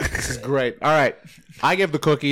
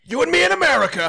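mock Trump; 14 semitones higher, faster than usual. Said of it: "Trump accent".

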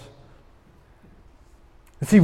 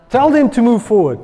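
commanding God; 5 semitones higher, 6 dB louder than usual. Acted. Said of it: "And God says".

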